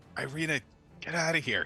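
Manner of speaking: hushed whisper. Playing the invisible Yune, speaking to Irina, whispering. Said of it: "Yune probably is going to whisper to her".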